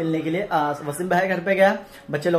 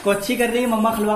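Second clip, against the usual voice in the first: imitating the child; 5 semitones higher than usual. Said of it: "का मतलब क्या है?".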